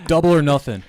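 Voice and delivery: high, loud mock challenge; acted wager. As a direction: throw down the bet as a cartoonish mayor. Voices the losing mayor betting again.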